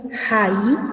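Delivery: "jai" with an audible H as in English; aspirated Guaraní H. Shown as a demonstration. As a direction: sound the first letter of "jai", never silent. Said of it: "es como la pronunciación en inglés". ("jai" con hache aspirada, como en inglés)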